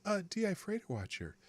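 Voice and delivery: hushed, even, unhurried doctor voice; Ben Carson calm voice. Retold or imitated. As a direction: impersonate a soft-spoken surgeon who never raises his voice. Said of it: "I'm still talking like Ben Carson".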